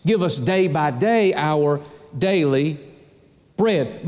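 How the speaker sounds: slow "day by day", pause before "bread"; stress on DAY BY DAY. Shown as a demonstration. Preacher repeating the verse for emphasis, weighting "day by day". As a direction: linger on "day by day our daily", then set "bread" apart. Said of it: "That's the emphasis".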